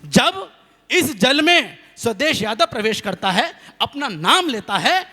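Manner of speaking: lightly solemn appeal to the holy water; mock prayer. Poet appealing to the holy water, mock solemn. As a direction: invoke the river like a pleading devotee. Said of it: "हमने कहा".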